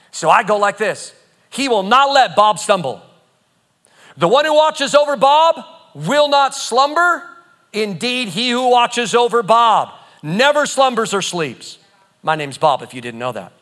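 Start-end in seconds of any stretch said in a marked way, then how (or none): 1.5-11.8 decree scripture. Acted. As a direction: declare it boldly over yourself, slowing at the end. Decrees Psalm with own name.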